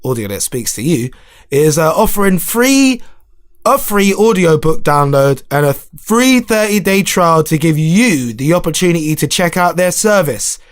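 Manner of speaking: lightly voiced ad read; advert voice. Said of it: "Can I do my advert voice".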